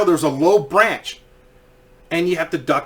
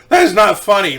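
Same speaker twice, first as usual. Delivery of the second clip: mildly indignant, louder rebuke; retold anger; 3 semitones higher, 6 dB louder than usual. Riders respond to guide's joke, mildly pissed off. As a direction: scold with a touch of anger. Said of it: "they were fucking pissed".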